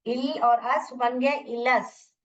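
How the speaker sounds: teacher blending syllables; slow blending. Shown as a demonstration. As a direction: slowly join इल and अस into इलस. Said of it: "पहले इन दोनों को पढ़िए".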